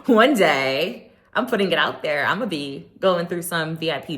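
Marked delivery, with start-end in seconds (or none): 0.0-1.1 laughing. Real, not acted. Laughing at own wish.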